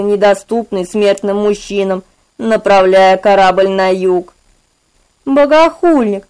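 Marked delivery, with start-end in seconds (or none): 5.2-6.2 high, eerie hissing voice; hissed accusation. Acted. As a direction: hiss it like a fanatic. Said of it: "зашипели мне в ухо".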